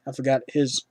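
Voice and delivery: talking through a burp. Real, not acted. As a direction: burp slipping out mid-sentence. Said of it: "I'm burping here with the Sprite".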